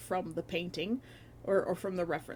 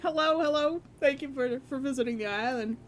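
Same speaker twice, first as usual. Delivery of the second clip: bright greeting; 6 semitones higher, 5 dB louder than usual. Real, not acted. Greets a new visitor.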